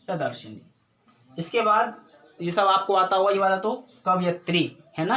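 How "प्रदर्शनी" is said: प्रदर्शनी said lower and softer, with long ई; correct pronunciation. Shown as a demonstration. Teacher models the corrected word to students, lower and softer. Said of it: "बड़ी ई की मात्रा का".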